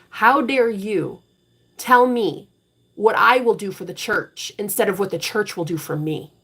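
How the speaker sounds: a mild mock yell at grandpa; retold yell. Confronting grandpa in the church aisle, mild mock yell. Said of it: "And I yelled it".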